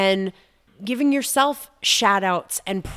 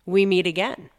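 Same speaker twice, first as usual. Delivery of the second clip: letter to the shifting market. Acted. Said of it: "here's the letter for the shifting market".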